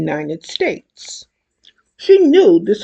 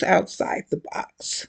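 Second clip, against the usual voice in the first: soft unvoiced whispered echo; 2 semitones lower, 7 dB quieter than usual. A narrator's reading. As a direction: whisper it like an aside. Repeated phrase, echo whispered.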